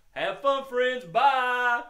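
high, loud puppet voice; excited dog farewell. Pretend. Puppet dog says bye to kids, loud and excited. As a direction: holler goodbye as a happy hound.

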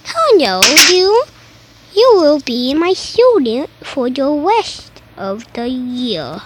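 a put-on teacher greeting, a bit loud; odd teacher voice. Teacher greeting a new student in a put-on voice. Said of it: "Why are you talking like that?".

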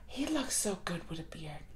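whispered, dreamy and close; swooning whisper. Real, not acted. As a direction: confide it in a hush. Swooning confidingly to viewers.

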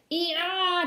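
squeaky little growl trying to sound fierce; a cub's best attempt at a scary grrr. Young wolf growling at the visitor, weakly fierce. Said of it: "did my best grrr".

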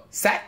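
"Sat" with a rising tone. Shown as a demonstration. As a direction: slide "Sat" upward like a question. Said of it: "this one's going up".

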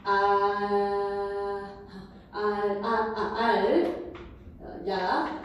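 알 and 야 held long, syllable by syllable; drawn-out pronunciation demo. Shown as a demonstration. Teacher working through the final pronunciation, slowly sounded out. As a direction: stretch out 아, 알, then 야, with pauses between. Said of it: "그러니까 최종적인 발음은".

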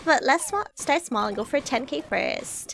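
lightly voiced Valley Girl streamer; Valley Girl accent. Streamer voices K-Angel to P-chan, light Valley Girl accent. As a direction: read it with a touch of Valley Girl. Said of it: "I'm gonna do the Valley Girl accent just for her".

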